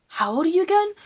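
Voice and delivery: high, loud imitation of a questioner; retold loud question. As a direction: call it out high, mimicking someone asking. Retold girl's question across table.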